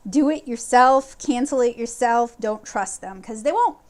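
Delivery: loud, insistent advice; emphatic urging. Real, not acted. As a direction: press the point hard. Urging viewers, louder.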